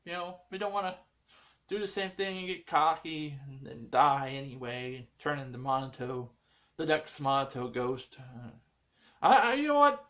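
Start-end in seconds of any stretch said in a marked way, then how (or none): 0.0-8.2 eager party member. Retold or imitated. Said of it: "some were like".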